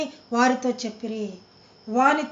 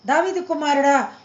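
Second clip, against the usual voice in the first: దావీదు pushed out louder in a mild call; louder cry; 3 dB louder than usual. Retold or imitated. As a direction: call out దావీదు కుమారుడా harder, a touch raised. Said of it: "ఇంకా పెద్దగా కేకలేస్తున్నాడంట". (గుడ్డివాడు యేసును పిలుస్తూ కొంచెం గట్టిగా కేక)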